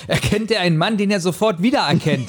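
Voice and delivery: rereading the clumsy sentence through laughter; laughing. Real, not acted. Rereading a clumsy book sentence to the co-host, laughing. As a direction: giggle through the words. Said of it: "Wie findest du diesen Satz?".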